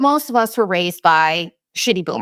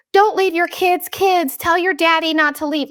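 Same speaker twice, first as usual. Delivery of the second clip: much higher, pleading imitation of a crying mother; imitating panicked mom; 9 semitones higher than usual. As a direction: beg like a frantic mom, pitched way up. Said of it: "freaking out and crying".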